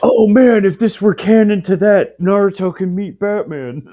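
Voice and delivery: loud, high excited outburst. Real, not acted. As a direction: burst out with delighted excitement. Sudden excited crossover idea.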